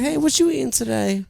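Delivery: high put-on feminine voice; mock feminine chatter. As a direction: chirp it like a flirty woman. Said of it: "This is my feminine voice".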